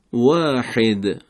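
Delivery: واحد very slowly, lips rounded on the waw; Arabic waw from rounded lips. Shown as a demonstration. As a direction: stretch واحد with the lips drawn together. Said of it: "از جمع شدن لبها".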